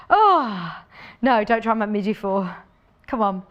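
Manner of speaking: breathless from the effort; puffing, short of breath. Real, not acted. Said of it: "I'm very out of breath".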